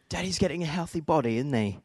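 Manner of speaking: light mock-British daddy voice; fake UK accent. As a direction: tease in a playful, put-on British accent. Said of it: "I do a fake little U K accent".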